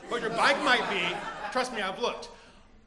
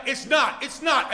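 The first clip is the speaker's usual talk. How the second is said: heated denial; 3 semitones higher, 7 dB louder, slower than usual. Acted. Thief's denial in acted quarrel.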